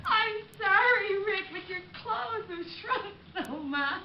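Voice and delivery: laughing apology. Acted. Helen laughs at Rick's clothes.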